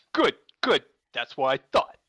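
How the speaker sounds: Christopher Walken. Acted. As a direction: lightly do a satisfied celebrity crayfish. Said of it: "I love that Christopher Walken shrimp".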